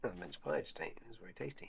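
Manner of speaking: tinny, thin mic sound; like a cheap tinny microphone. Real, not acted. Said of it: "you sound really tinny".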